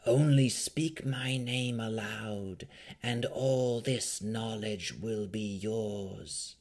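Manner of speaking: slow, hushed vampire whisper; grave-silent voice. A narrator's reading. Vampire tempting Rowan with secrets in her dream, slow hushed whisper. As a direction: draw it out in an eerie, whispery murmur. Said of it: "in a voice more silent than the grave".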